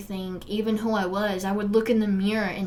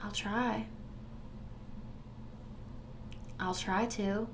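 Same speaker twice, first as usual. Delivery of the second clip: quoting abuser; 13 dB quieter than usual. Retold or imitated. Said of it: "the answer that I got was".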